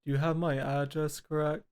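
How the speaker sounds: flat monotone voice, imitating the caller. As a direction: say it dead flat with no tune. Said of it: "My monotone voice".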